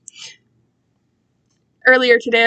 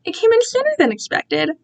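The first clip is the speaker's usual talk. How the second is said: higher, pleased villain voice; captor's voice; 10 semitones higher than usual. A narrator's reading. Captor shows Cole the box, pleased and gloating. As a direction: gloat over the package. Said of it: "he said".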